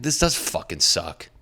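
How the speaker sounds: slow, emphatic "This does fucking suck"; agreeing gripe. Acted. Coworker backing up another's complaint, emphatic agreement. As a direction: lean on "does" in commiseration. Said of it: "Somebody's like".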